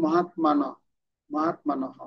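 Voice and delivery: মহাত্মানহ with the last h only lightly released; half h ending. Shown as a demonstration. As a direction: clip the final h of মহাত্মানহ to half. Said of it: "অর্ধেক হয়েছে". (মহাত্মানহ শেষে অর্ধেক হ)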